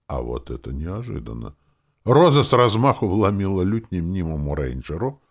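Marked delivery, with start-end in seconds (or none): none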